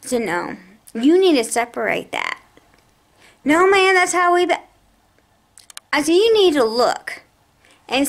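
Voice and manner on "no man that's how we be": higher, louder mock protest; a hint of an exasperated clerk; mimicking the clerk. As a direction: toss back the clerk's flustered protest.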